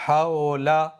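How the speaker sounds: "حولا" with a majhool o in the first syllable; majhool demo. Shown as a demonstration. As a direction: read "حولا" the wrong majhool way. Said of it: "مجہول سناتا ہوں میں".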